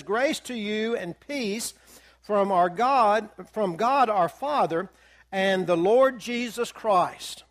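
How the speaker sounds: slow, measured reading of the verse; deliberate Bible reading; scripture reading. Acted. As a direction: read it out slowly like holy writ. Reads scripture verse aloud.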